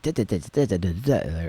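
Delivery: imitating a flat, mechanical voice with no feeling; monotone drone. Mimicking how an all-warrior man would sound, mock monotone. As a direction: rattle off da da da like a machine. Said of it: "I would sound a little, like, kinda just autistic".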